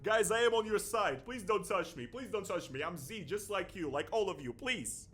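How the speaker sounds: frantic, high-pitched mock begging; mock pleading. Host mocking censored Russians appeasing their persecutors, hammed-up pleading. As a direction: plead loudly, hamming up the desperation. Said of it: "they say".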